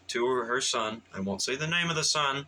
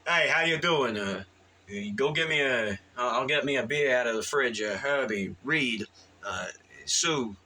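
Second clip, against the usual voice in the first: regular Joe voice. Retold or imitated. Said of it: "He talks like a".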